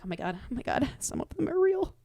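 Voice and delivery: mock panic, rising high at the end; retold alarm. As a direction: retell a creeped-out freak-out, voice climbing. Retold panicked whispers in wax museum.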